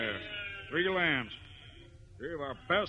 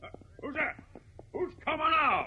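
sudden hushed whisper, higher; startled whisper; 11 semitones higher than usual. Acted. Rancher hears someone approaching in the dark, startled whisper. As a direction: whisper it, caught off guard.

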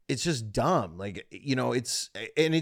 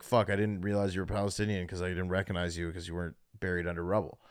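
mock racist joke; 6 semitones lower, 6 dB quieter, faster than usual. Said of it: "saying to a Palestinian looking guy".

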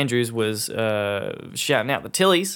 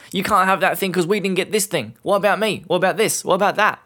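higher, whining what-about voice; whiny complainer; 6 semitones higher, 4 dB louder than usual. Retold or imitated. Mock whiner whining that others got something first. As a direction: whine about being left out. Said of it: "It's the whataboutism".

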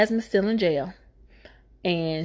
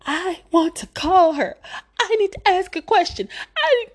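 high, whining, half-laughing plea; whiny Jasmine; 11 semitones higher, 4 dB louder than usual. Retold or imitated. Mocking Jasmine as she begs the judge to call her witness in a high whine. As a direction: whine like a stubborn child.

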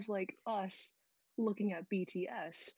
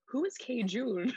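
louder, slower repeat of Who is K Jun; mom demanding louder; 4 semitones higher, 7 dB louder, slower than usual. Retold or imitated. Mom demanding an answer about the sauce, louder and slower. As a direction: press the question harder and slower. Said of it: "she's like".

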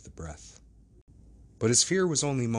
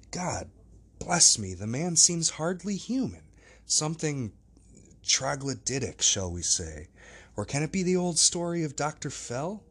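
a hint of an agitated old lawyer thinking aloud; perplexed gentleman; 2 semitones higher than usual. Utterson voiced, long musing speech.

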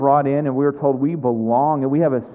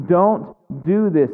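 slow, raised, lightly urgent caution; warning; 4 semitones higher, slower than usual. Acted. Jesus warning people of danger, slow measured warning. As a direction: warn them with weight on each word. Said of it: "Jesus here is warning".

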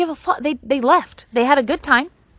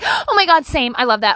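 mock gushing fan; 2 semitones higher, 5 dB louder than usual. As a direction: gush like you're starstruck by a friend. Gushing over a crush friend.

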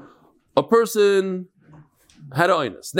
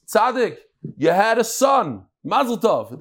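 higher, drawn-out congratulations; excited announcement; 5 semitones higher, slower than usual. Retold or imitated. Doctor congratulates the new father on a son, excited. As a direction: break the happy news to him.

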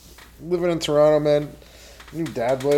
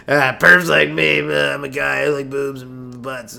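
creepy perv; 6 dB louder, slower than usual. Acted. Self-mocking creep voice.

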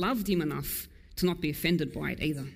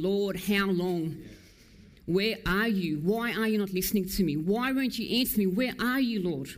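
desperate cry. Retold or imitated. Preacher voicing David's anguish, mildly pleading. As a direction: plead with God, half-acted anguish. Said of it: "someone pouring out the heart, going".

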